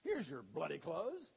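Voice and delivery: mock English accent, slow, with "bloody" stressed. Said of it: "He was English".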